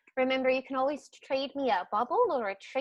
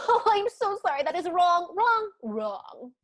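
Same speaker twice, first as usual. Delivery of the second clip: gloating troll; 7 semitones higher, 5 dB louder than usual. Acted. Troll gloats over wrong guess.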